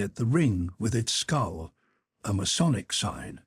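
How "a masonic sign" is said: plain reading voice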